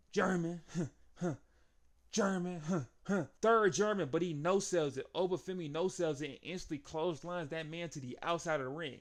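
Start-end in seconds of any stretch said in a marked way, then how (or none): 0.1-4.1 giggly excited counting of the throws; laughter breaking into the play-by-play; laughing count. Real, not acted. Laughing while counting suplexes.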